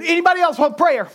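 loud, high call to the congregation; acted-out public appeal. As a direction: raise your voice to a whole room. Calling out to congregation, retold.

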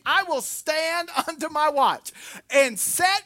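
high, loud, slow reading; scripture proclamation. Acted. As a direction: proclaim the verse with drawn-out force. Reads scripture at full force.

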